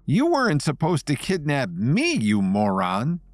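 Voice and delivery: high, exasperated outburst, slowing on moron; exasperated exclaim. Acted. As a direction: blurt it out in frustration. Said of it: "Nancy exclaimed".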